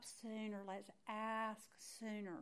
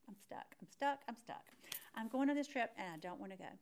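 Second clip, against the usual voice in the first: reluctant dread; 4 semitones higher, faster than usual. Retold or imitated. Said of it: "I probably spent more time saying that".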